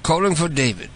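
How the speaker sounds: lightly put-on British voice; mock British accent. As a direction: play a polite British caller. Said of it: "switch to my British voice".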